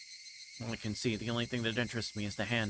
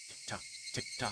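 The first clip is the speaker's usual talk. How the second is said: whispered tick-tock; 7 dB quieter than usual. Acted. Girl staring at the clock whispers the ticking.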